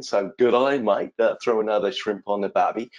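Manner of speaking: a lightly exaggerated Australian accent, mock cliché; hammed-up Australian accent. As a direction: play up the Aussie accent as a joke. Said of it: "I am Australian".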